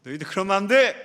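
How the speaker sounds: a mild, understated angry rebuke; a touch of stern anger. Acted. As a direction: scold the disciples firmly but without shouting. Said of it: "예수님께서 더 화를 내셨어요".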